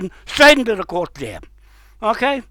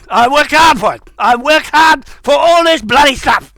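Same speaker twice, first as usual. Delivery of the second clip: high, heated self-defence; angry insistence; 4 semitones higher than usual. Real, not acted. Speaker defending years of hard work, angrily insistent. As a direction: hammer it home with real indignation.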